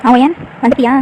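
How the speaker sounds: loud, happy greeting at the door; glad welcome. Acted. Mother greeting arriving daughter, loud and glad. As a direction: call her in warmly and loudly.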